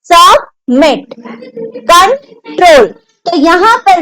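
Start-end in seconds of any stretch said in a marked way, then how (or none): 0.0-1.1 सबमिट slowly split, सब, then a stressed मिट; stress on last syllable. Shown as a demonstration. Teacher demonstrates stress to class, stressed last syllable in सबमिट. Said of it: "stress कैसे? जैसे". 1.9-2.9 कंट्रोल slowly split, कं, then a stressed ट्रोल; stress on last syllable. Shown as a demonstration. Teacher demonstrates stress to class, stressed last syllable in कंट्रोल. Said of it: "stress कैसे? जैसे".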